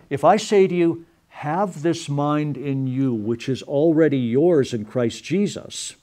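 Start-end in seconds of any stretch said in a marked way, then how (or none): 1.3-5.9 "Have this mind in you" read slowly, stressing "this" and "already"; slow, deliberate reading. Shown as a demonstration. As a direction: lay each word down slowly, stressing "already". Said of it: "some of the pressure has now been deflected".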